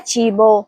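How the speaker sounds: "چیبو" with a ch sound at the start; ch pronunciation. Shown as a demonstration. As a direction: demonstrate "چیبو" as CHEE-bo. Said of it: "اس کا صحیح تلفظ ہے". ("چیبو" کو چے کی آواز سے پڑھیں)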